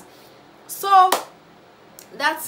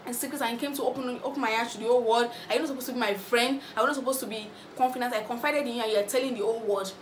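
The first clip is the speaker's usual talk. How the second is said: mildly raised, hurt accusation; retold shouting; 3 semitones higher than usual. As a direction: replay his angry outburst, lightly voiced. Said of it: "he was like shouting".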